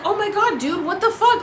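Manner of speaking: high, laughing disbelief; exasperated disbelief; mock shock. Retelling her reaction to the warning, high laughing disbelief. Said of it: "I was like".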